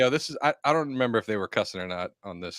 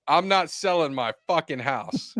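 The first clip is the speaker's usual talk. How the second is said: quoting the wife; 4 semitones higher, slower than usual. Retold or imitated. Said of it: "you wanna run the script?".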